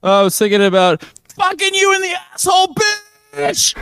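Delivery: cartoon sleaze voice, squeaky; same weird voice again. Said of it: "you're doing it again".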